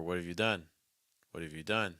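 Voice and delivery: "what have you done" contracted, with fuller "you". Shown as a demonstration. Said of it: "Either one of those".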